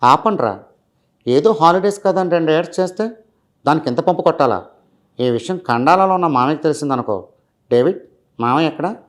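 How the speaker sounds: lightly voiced young film hero; a hint of Mahesh Babu's early film voice; casual hero dialogue, only lightly put on; Mahesh Babu impression. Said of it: "Mahesh Babu గారు రాజకుమారుడు సినిమాలో".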